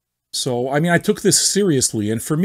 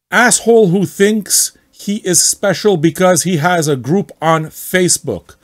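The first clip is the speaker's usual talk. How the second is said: angry poster; 3 semitones higher than usual. Retold or imitated. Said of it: "read as much as possible like him".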